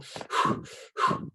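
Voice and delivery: slow controlled breath out; breathing demo. Shown as a demonstration. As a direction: demonstrate the recovery breath. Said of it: "We do this".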